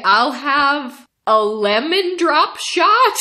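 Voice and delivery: high, slow, tentative order rising at the end; unsure order. Retold or imitated. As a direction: order it as if guessing, stretched out. Unsure order, retold for laughs.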